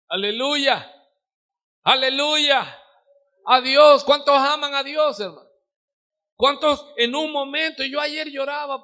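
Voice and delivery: preacher calling the congregation to praise; preaching at full force. Acted. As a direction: lift the room with a ringing hallelujah.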